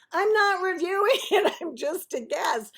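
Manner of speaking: high, loud outburst with a laugh; mock exasperated protest. Guest insisting she isn't reviewing, comically exasperated.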